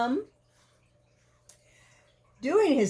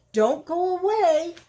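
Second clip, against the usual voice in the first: high, louder call while running off; calling back; 6 semitones higher, 5 dB louder than usual. Acted. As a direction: shout it over the shoulder. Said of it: "dashing out".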